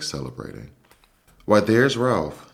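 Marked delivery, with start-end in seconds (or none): 1.4-2.5 high, slow mouse squeak; squeaky voice. A narrator's reading. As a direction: squeak it out like a prim old aunt. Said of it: "squeaked his Aunt Sissy".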